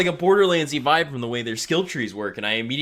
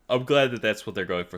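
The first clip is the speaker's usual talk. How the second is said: talking through a yawn; 2 semitones lower than usual. Real, not acted. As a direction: yawn while saying it. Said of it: "Sorry, yawning".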